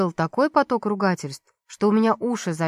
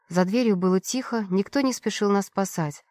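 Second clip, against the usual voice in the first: plain reading voice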